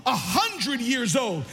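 high, loud, driving sermon delivery; full-force preaching. Real, not acted. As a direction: preach it hard with rising fervor.

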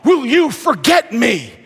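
crying out. Retold or imitated. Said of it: "David is crying out".

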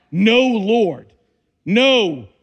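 loud, defiant no; loud refusal. Acted. Preacher hammering Peter's refusal to the congregation, loud. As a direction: throw the no back at God. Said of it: "How dangerous is that".

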